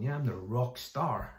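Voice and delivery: swaggering. Retold or imitated. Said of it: "Peter probably walked around going".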